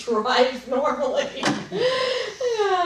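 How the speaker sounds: words breaking into a real laugh. Real, not acted. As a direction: laugh through the end of the sentence. Laughs at irony of her story.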